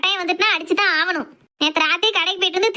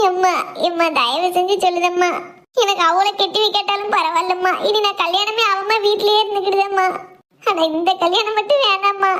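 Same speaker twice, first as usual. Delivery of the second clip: tearful begging. Acted. Daughter implores her mother to drop this marriage, tearful begging. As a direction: implore mother through tears. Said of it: "தரையில படுத்துக்கிட்டு அழுதுட்டு கிடக்கா".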